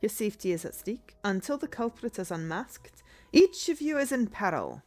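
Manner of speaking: put-on formal old-fashioned detective voice; detective character voice. Streamer voicing the detective's summons, formal and measured. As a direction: read it as a stately detective. Voicing game dialogue aloud.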